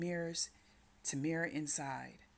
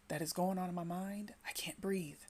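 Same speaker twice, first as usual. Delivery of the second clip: whispered, gasping for air; a breathless frightened whisper; can't get the words out, whispering; panicked whisper; 3 semitones higher than usual. Acted. Voices anxious person's panic.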